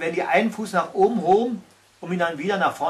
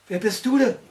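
a touch of courage, higher; brave question; 6 semitones higher, 4 dB louder than usual. A narrator's reading. Little troll questioning the monster, mildly brave. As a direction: ask boldly, trying not to fear. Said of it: "das Ungetüm mutig".

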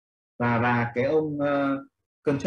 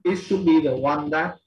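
model answer; 4 dB louder, slower than usual. Shown as a demonstration. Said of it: "em mới bắt đầu dùng gì".

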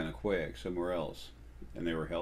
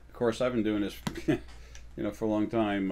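real, light chuckle breaking into the words; chuckling. Real, not acted. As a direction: talk through a small chuckle. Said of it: "I'm kinda chuckling".

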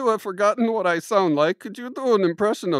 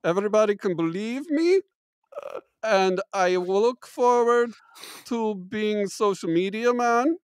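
mock German accent. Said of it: "my accent goes in and out".

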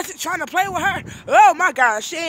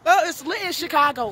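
names the wrong city with a hyped falling call; hyped-up "Chicago" said proudly, full of excitement; excited hype; 2 semitones higher, 3 dB quieter than usual. Real, not acted. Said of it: "We're in / Michigan".

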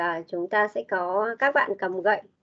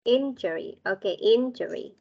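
Injury said IN-juh-ree; stress on first syllable. Shown as a demonstration. Teacher confirming a student's retry, Injury stressed on the first syllable. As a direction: echo Injury with the weight on "IN". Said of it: "Chúng ta sẽ nhấn vào".

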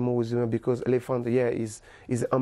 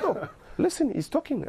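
laughing wife; 13 semitones higher than usual. Retold or imitated.

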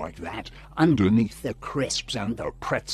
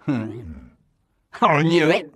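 triumphant; 2 semitones higher, 6 dB louder, much slower than usual. Acted. Triumphant quote, slow and loud.

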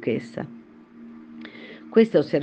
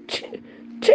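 sneezing. Acted. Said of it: "incominciò subito a starnutire".

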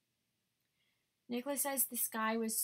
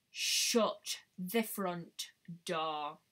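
low, slow Shut the front door, drawn out; slow disbelief; 5 semitones lower, much slower than usual. Real, not acted. Hearing about new glitter palettes, stunned and slow. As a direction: let it sink in, stunned and low. Reacting to makeup news.

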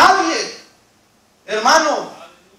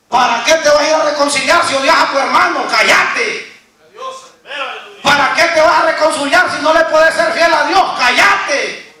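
devil's rebuke; 2 semitones higher than usual. Acted. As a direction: scold like the devil silencing a believer. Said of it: "Esa es la reprensión que escucha usted de parte del diablo". (reprensión acusadora del diablo, en voz fuerte)

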